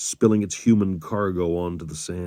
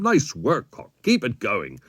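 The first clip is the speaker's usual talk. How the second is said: raised, hearty praise to the gunner; upbeat commander's pat on the back; grinning encouragement; 4 semitones higher, 4 dB louder than usual. A narrator's reading. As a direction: cheer him on with a grin. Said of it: "grinning at him".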